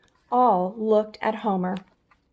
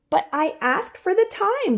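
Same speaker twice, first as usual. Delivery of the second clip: squeaky chipmunk; 10 semitones higher than usual. Acted. Chipmunk protesting.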